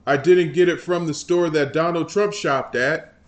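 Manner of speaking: loud, whiny mock politician; mock Jeffries. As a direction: lightly ham up a defensive congressman. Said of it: "That's how he sounds".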